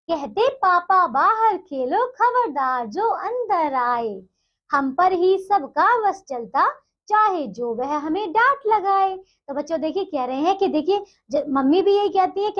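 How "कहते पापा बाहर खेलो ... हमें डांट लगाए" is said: slow, measured sing-song reading of the verse; poem recitation. Acted. Teacher reciting the poem to young pupils, slow and rhythmic. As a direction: draw each line out like reciting a poem to a class.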